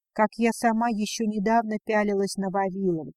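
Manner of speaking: plain reading voice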